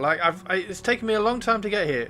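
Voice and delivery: persistent pleading snail. Retold or imitated. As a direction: plead with the barman, not giving up. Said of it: "The snail was persistent. He was like".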